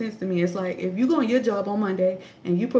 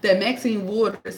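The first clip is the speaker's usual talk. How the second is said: slowed-down shocked; slower than usual. Shown as a demonstration. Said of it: "I say shocked like this".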